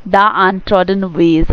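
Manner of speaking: drawn-out poem words, each one spaced; slow poem reading. Shown as a demonstration. Teacher reads the poem's words to the class, very slow recitation. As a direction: read the phrase very slowly.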